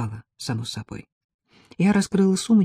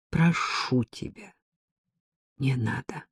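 soft, slow, much quieter plea; 2 semitones lower, 6 dB quieter, slower than usual. A narrator's reading. Ella quietly begs her friend to stop. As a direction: beg her gently to stop. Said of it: "тихо попросила Элла".

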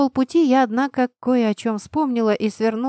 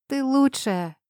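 higher, sincere thanks; heartfelt; 6 semitones higher, slower than usual. A narrator's reading. Oxy to her friend, a touch of heartfelt. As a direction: say it with feeling. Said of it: "с чувством произнесла я".

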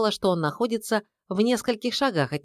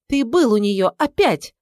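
a raised accusing cry; jealous accusation; 4 semitones higher, 6 dB louder than usual. A narrator's reading. Wife accusing husband of visiting his mistress, raised voice. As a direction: accuse him, voice climbing.

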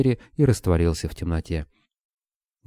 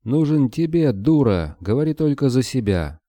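higher, wailing anger; furious yell; 6 semitones higher than usual. A narrator's reading. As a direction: howl it at her. Borода keeps yelling.

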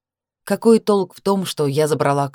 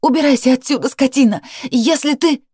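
loud, much higher yell; shout; 9 semitones higher, 5 dB louder than usual. A narrator's reading. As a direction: throw him out with a scream. She keeps shouting.

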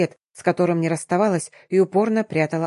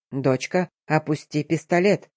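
cautious; 3 semitones lower than usual. Acted. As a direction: gently talk her down. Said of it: "осторожно приближаясь".

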